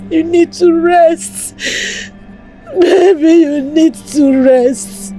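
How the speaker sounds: sobbing, begging her dead husband to forgive her, breaking into cries; tearful pleading. Acted. Wife begging her dead husband's body for forgiveness, crying. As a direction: plead through tears, voice cracking into wails.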